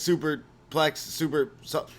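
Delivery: a commentator getting carried away; imitating Taz. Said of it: "and then goes".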